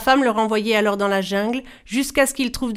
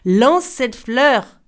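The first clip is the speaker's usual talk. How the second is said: slow, louder, hard command; harsh cry; 3 semitones higher, 6 dB louder, much slower than usual. Acted. Greedy brother ordering his sister, harsh. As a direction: bark the order, patience gone. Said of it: "s'écria le frère".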